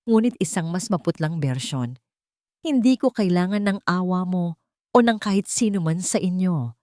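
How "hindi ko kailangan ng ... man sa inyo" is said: firm, forceful. Acted. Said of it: "Mariin niyang sabi".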